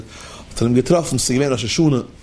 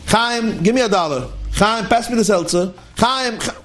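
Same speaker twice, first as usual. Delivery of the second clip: son calling father; 6 semitones higher than usual. Retold or imitated. Acts son calling father by name.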